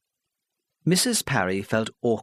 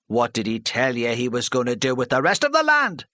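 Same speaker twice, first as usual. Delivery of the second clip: scornful villager; 3 semitones higher, 3 dB louder than usual. Acted. Charlie scoffing at Mrs Parry before the hall, scornful. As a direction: scoff at her plan.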